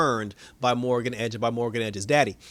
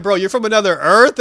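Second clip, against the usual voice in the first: shocked; 5 semitones higher, 10 dB louder than usual. Retold or imitated. Diggle shocked at Irons' reveal.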